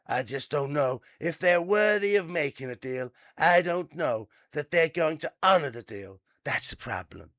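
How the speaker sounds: lightly voiced, doubtful tycoon; a hint of Trump musing; Trump impression. Quoting the president in a light put-on voice. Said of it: "Trump added".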